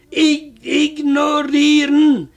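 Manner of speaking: Ich ignorieren said slowly, syllable by syllable; slow repeat. Retold or imitated. Husband slowly spelling the word out for his wife. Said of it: "was, sagt sie?".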